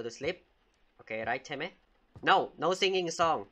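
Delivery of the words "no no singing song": louder, firm bedtime order; firm scolding. Pretend. Babysitter forbidding singing at bedtime, firm. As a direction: lay down the rule to a child.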